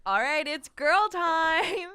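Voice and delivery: loud, slow, gleeful cheer; excited shout. Retold or imitated. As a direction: drag it out like a party call. Quoted shout at girls' night.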